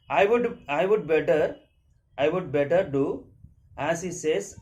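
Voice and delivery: loud, halting reading with restarts; story read-aloud. A narrator's reading. Tiger deciding to obey in a story, loud halting read-aloud. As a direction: read it out loudly in short chunks.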